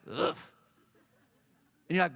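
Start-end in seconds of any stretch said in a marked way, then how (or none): 0.1-0.5 low puff of hot dog breath; breathy mock dog huff; imitated dog huff. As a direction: huff like a dog right in someone's face. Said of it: "he'll be like".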